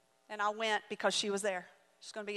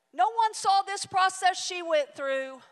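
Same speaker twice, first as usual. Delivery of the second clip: higher, slow and deliberate; emphatic, slow; 7 semitones higher, 4 dB louder than usual. Real, not acted. Preacher pressing the point on the congregation, slow and emphatic. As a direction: drive the point home slowly.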